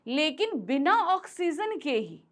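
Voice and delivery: teacher re-stressing ऑक्सीजन. Shown as a demonstration. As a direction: punch ऑक्सीजन. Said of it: "हमने ऑक्सीजन पे जोर देने के लिए".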